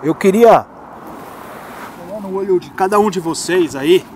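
muffled, talking inside a motorcycle helmet. Real, not acted. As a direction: voice boxed in by a helmet. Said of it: "Eu vou deixar o capacete aqui porque meu microfone tá aqui dentro".

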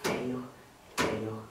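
low, soft, savouring mutter; hushed gloat with soft chuckles; villainous gloating. Acted. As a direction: relish it under your breath. Villain changes grades while gloating alone.

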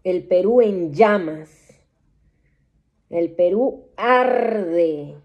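loud visionary alarm, arde stretched slow; alarmed proclaiming. Acted. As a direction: announce the blaze as if watching it. Vision of fire everywhere.

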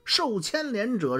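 a petty tyrant sneering down at his critics; quiet menace of a corrupt magistrate; gloating official. Acted. Cruel official gloating over scholars.

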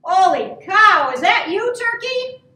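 loud exclamation, climbing high at the end; astonished pig. A narrator's reading. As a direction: burst out in storybook astonishment. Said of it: "snorted the pig".

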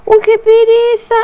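a lighter echo of the same lazy moan; groaning reluctance again. Retold or imitated.

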